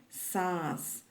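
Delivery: सांस with a nasalised long aa; सांस nasalised, teaching tone; nasal vowel. Shown as a demonstration. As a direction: let the aa in सांस ring through the nose. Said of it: "इसका उच्चारण कैसे करेंगे?".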